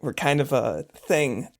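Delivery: a touch of languid ease; lazy. Acted. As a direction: say it lazily, as if casually dropping news. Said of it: "lazily says".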